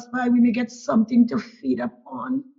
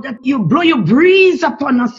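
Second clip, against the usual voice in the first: louder burst of fervent pleading; rising plea; 2 semitones higher, 7 dB louder than usual. Real, not acted. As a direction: swell the voice as you beg. Prayer swells into a plea.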